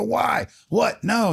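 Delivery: retold panic in a squeaky high voice; distraught protest. Protests selection being ended.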